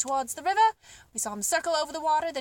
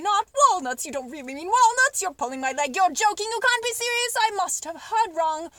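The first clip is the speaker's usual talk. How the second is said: excited disbelief; 4 semitones higher, 4 dB louder than usual. Acted. Monkey in disbelieving joy.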